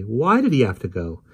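passionate demand. Acted. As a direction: press him for the reason. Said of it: "Polly demanded passionately".

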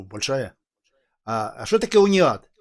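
ordinary delivery

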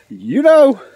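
high, loud squawked punchline; parrot voice. Acted. Parrot taunting the smug lady, high squawky voice. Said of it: "and the parrot goes".

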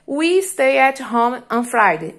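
slow dictation. Shown as a demonstration. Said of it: "teacher dictating example sentence".

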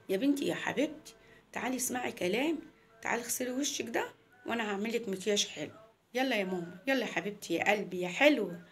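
lightly voiced mother coaxing her child. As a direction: coax the little girl in an everyday mum's voice. (أم بتحايل بنتها)

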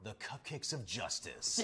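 slow, dramatic movie announcer read; movie trailer voice. Shown as a demonstration. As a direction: boom it out like a film trailer. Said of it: "Say it in your movie voice".

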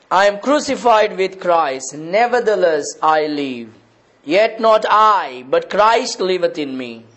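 emphatic preaching with stretched-out key phrases; declaimed scripture. Acted. Preacher quoting Paul to the congregation, emphatic declamation. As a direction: proclaim the verse, building to the end.

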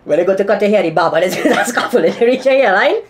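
helium voice. Real, not acted. Helium roast.

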